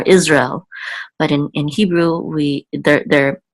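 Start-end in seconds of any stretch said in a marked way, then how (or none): 0.0-0.7 Israel said the English way, IZ-rel, fully slurred. Shown as a demonstration. Teacher contrasting the English pronunciation. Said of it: "We would slur it together even more".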